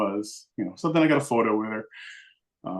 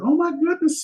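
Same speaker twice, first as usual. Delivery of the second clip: high-pitched gushing exclamation; retold squeal of delight; 4 dB louder than usual. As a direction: coo in delighted surprise, high. Woman gushes over friendly child.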